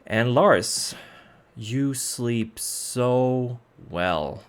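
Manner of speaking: measured scene setting, slowing on key moments; game master narration. Acted. Game master easing the party into sleep and waking, measured narration. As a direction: narrate it steadily, letting pauses hang.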